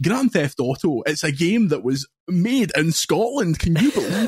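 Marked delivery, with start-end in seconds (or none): 1.0-4.3 generic Glasgow presenter. Pretend. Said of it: "That's what you normally sound like".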